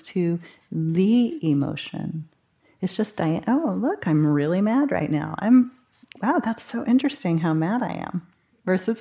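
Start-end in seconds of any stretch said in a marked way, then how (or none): 3.5-8.3 light, interested, calm observer voice; calm curious noticing. Shown as a demonstration. Teacher showing mindful noticing of anger, calm and curious. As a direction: marvel at your own anger from a little distance. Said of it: "That's the difference".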